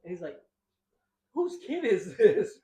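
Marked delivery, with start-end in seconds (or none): 1.3-2.6 loud, slow, baffled boss; slow, loud, incredulous manager. Retold or imitated. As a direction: drawl it like a stunned boss. Boss voiced in story.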